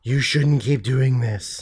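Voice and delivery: slow, lightly mimicked warning; judge's quiet hint. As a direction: slowly play a judge hinting discreetly. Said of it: "when a judge does that".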